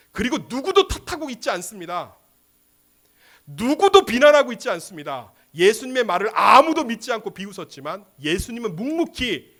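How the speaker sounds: forceful pulpit declaration; impassioned preaching. Acted. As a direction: drive each phrase home to the congregation.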